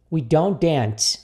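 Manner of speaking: slow, connected phrase; repeat-after-me model. Shown as a demonstration. Teacher gives students the joined sentence to copy, slowly. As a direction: say it again as one measured sentence. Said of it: "repita comigo aqui".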